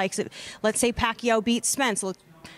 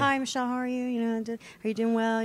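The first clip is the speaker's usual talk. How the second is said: a light hint of soft, sweet Josh; 5 dB quieter than usual. Michelle mimics Josh greeting her in camp, softly sweet. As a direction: gently imitate his friendly camp greeting, a little softer. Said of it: "I'm used to sweet Josh in camp".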